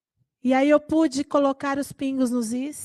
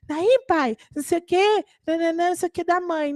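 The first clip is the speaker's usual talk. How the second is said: put-on kid chatter; 5 semitones higher than usual. Daughter chatters to dad.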